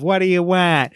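lightly imitated New York accent; a quick mock New York whine; Fran Drescher New York accent. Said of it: "doing Fran's New York sort of".

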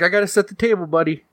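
high, gentle mother; high mom voice. Acted. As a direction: sing it out like a busy mom. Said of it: "she's like".

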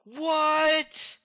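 high, stunned what; shocked what. Real, not acted. Co-host hearing a surprise reading, shocked. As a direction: blurt it out in disbelief.

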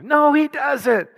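"No, he doesn't" high and drawn out; emphatic denial. Real, not acted. Preacher rebutting a false view of God, "No, he doesn't" high and emphatic.

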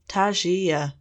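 Tangier drawn out slowly, syllable by syllable, savouring; syllabled slowly. Shown as a demonstration. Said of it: "She syllabled the word slowly".

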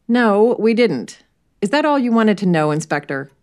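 put-on curt young man. Jack brushing off the inspector, a touch of defiance. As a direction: hold the inspector at arm's length.

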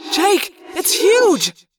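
slow, high, loud call down; yelled from above. A narrator's reading. Tobias calling down to Jake from above, high yell. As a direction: call it down from the sky. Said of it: "Tobias yelled down from above".

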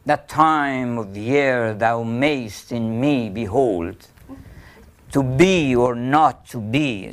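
slow, with stress on every second syllable; iambic recitation. Shown as a demonstration. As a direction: beat out the iambs. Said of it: "one soft and one hard".

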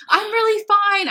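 hammed-up weepy reassurance; mock bawling. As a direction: imitate insisting through sobs, loud and high. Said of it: "start crying and, like, bawling".

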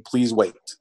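flat machine announcement voice; robot voice. Retold or imitated. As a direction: read it like the device's robot voice. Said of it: "it'll repeat that".

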